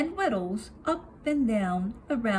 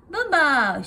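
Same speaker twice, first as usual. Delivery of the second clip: loud joyful shout of the game's name; a kid yelling in play; 4 semitones higher, 6 dB louder than usual. A narrator's reading. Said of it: "shouted Flop".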